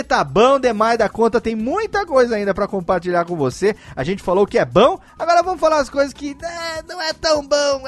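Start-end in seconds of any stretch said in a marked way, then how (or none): 5.2-7.9 mock high voice. Host mocks the bad side.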